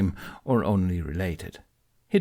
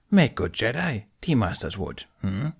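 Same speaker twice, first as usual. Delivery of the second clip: put-on a wise old creature, gently scolding; Yoda voice. Yoda lecturing Ben on his tea, amused. Yoda's voice in story.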